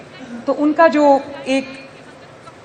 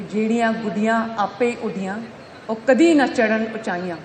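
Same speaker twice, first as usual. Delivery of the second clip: verse recitation. Acted. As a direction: recite the couplet phrase by phrase, then lift it. Recites a Punjabi couplet. (ਸ਼ਿਅਰ ਪੜ੍ਹਨ ਦਾ ਅੰਦਾਜ਼)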